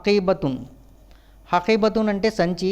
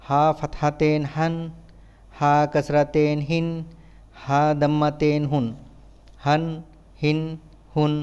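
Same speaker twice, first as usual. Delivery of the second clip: even, monotone syllable-by-syllable drill; measured classroom letter drill; spelling drill recitation; 3 semitones lower than usual. Shown as a demonstration. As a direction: recite it like a spelling chant, pausing between items.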